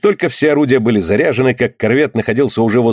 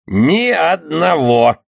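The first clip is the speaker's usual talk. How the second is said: through gritted teeth; 5 semitones higher, much slower than usual. Acted. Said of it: "скрежеща зубами".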